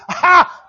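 loud, high mock "ha"; one derisive burst of divine laughter; scornful laugh. Preacher voicing God laughing at raging nations, scornful shouted ha. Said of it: "Our God will laugh".

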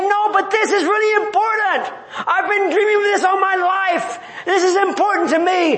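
high, pleading insistence, a touch hammed-up; mock insistence. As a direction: protest like a believer clinging to a dream. Acted believer insisting.

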